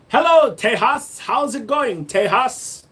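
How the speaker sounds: high, loud shout-out; hollered greeting. Acted. Streamer greets viewers in Texas, high excited holler. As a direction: holler it high to a faraway crowd.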